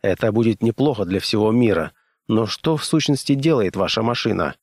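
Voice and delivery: plain reading voice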